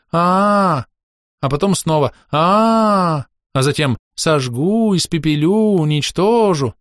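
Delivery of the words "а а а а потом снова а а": daughter mimics a dragon's angry shouts; angry yelling. Daughter showing father how the dragon screamed, mild mock yell. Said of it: "кричал, громко и злобно, вот так".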